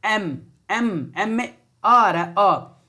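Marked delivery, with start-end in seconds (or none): 0.0-1.1 एम said slowly, the vowel first; sounding out एम. Shown as a demonstration. Teacher to class, demonstrating एम slowly. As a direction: stretch एम for the class. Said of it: "मैं जो बोल रहा हूं उसको ध्यान सुनेंगे".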